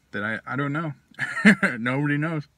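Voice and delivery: talking around pipe stem; pipe in mouth. Real, not acted. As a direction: lips clamped on pipe. Seen 3: Pipe stem between lips from -1.0 until removed at 4.5.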